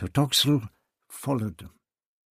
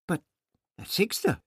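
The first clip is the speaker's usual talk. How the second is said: cried out; 10 semitones higher, 3 dB louder than usual. A narrator's reading. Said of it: "Barbara cried".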